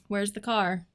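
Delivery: slow attempt at a New Zealand accent. Shown as a demonstration. Wife shows off her accent for husband, New Zealand accent. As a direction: try it with New Zealand vowels. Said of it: "you think you can do New Zealand".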